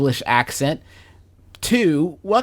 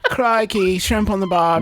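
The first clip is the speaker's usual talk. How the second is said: bad Australian accent; 4 semitones higher than usual.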